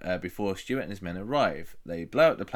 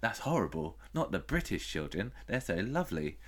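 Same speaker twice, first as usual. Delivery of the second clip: mock sympathy; 8 dB quieter than usual. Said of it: "It's like".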